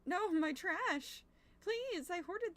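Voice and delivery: drawn-out theatrical lament; dismayed wail. Real, not acted. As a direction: wail over the lost trash. Dismayed trash was taken.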